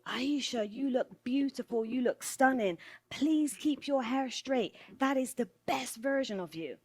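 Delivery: acted-out gushing plea; gushing colleague. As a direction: lay the compliments on, mimicking a well-meaning colleague. Colleague praises straightened hair, acted.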